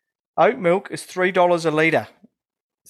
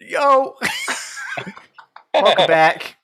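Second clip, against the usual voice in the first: hyped crowd warm up; 8 semitones higher, 4 dB louder, slower than usual. Acted. Hosting return from break.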